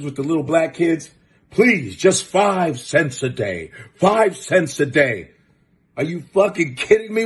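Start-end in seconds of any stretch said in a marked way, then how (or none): 1.5-5.3 slow, pleading charity commercial voice; mock charity ad. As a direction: beg like an old man in a poverty ad. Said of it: "old white man who would do those poverty commercials".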